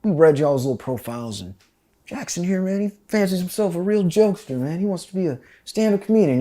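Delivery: sarcastic sergeant teasing a recruit; drill sergeant. Retold or imitated. Drill sergeant mocking Jackson to the platoon, sarcastic. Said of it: "he's like".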